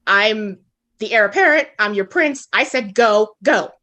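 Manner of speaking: imperious, lightly acted; pulling rank. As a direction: retell it as an insistent prince giving orders. Retold prince pulling rank.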